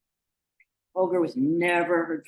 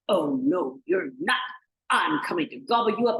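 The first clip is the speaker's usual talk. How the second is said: menacing storybook troll; firm troll growing louder; threatening troll; 3 dB louder than usual. Acted. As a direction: threaten to gobble them up. Troll threatens the little goat.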